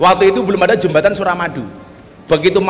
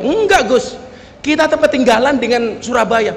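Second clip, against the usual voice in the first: lightly acted insistence, pitched up on the refusal; stubborn protest; 2 semitones higher than usual. Minibus driver argues back to the preacher, imitated stubborn insistence. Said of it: "Dia ngeyel".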